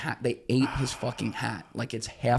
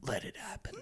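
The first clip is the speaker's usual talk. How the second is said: muted reply; 15 dB quieter than usual. Retold or imitated. Paul's cold reply.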